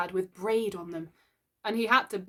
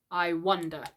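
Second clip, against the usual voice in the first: thoughtfully. Acted. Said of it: "Mister Darling said thoughtfully".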